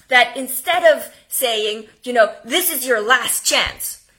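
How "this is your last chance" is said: louder, pushy warning; loud aggressive ultimatum. Shown as a demonstration. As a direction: push it hard like a threat. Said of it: "this is a bit aggressive".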